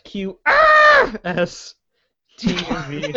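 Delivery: teacher voice. Pretend. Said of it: "I'm teaching the alphabet".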